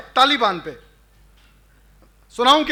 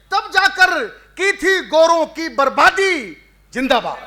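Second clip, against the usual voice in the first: slow, declaimed patriotic verse; poem recitation; 2 semitones higher, slower than usual. Acted. Poet rousing a gathering with freedom verses, declaimed recitation. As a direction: recite like a rally slogan, drawing out each phrase.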